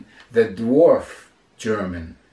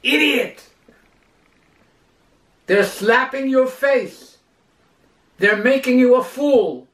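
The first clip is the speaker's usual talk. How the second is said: loud, much higher outburst at the screen; wanting to shout; 9 semitones higher, 3 dB louder than usual. Retold or imitated. Audience longs to shout at the proud man, loud and high. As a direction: yell at the fool on the screen. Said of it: "we want to shout".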